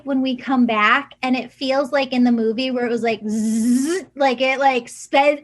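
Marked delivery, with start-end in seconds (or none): 3.3-4.1 imitated speeding-up buzz; whizzing noise. Medium imitating a movie suddenly speeding up, whizzing noise. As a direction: buzz a zipping zzz sound. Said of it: "speeds up really fast".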